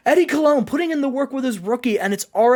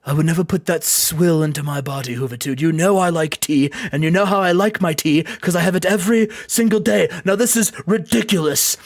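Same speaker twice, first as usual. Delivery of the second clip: Steven Regal; 5 semitones lower than usual. Retold or imitated. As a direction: lower voice, lightly playing an indignant Brit. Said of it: "you British people".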